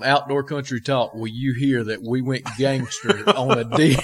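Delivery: slow, laughing through the words; laughing aside. Real, not acted. Host to listeners about the deer story, laughing. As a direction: savor the joke, chuckling.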